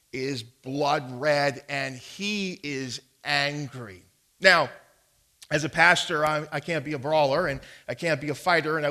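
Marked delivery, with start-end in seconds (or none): none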